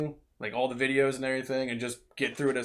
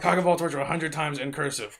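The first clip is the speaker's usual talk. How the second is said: laughing; 3 semitones higher, 4 dB louder than usual. Real, not acted. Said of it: "that whole sentence".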